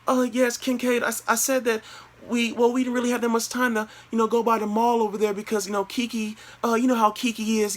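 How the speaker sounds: high, even falsetto, hesitant and rambling; imitated girlfriend. Girlfriend blaming her friend to boyfriend, falsetto imitation.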